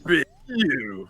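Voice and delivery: mock game-boss voice; Frostman. Friend echoing Frostman's voice clip, villain voice. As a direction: echo the villain's threat. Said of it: "You got Frostman's".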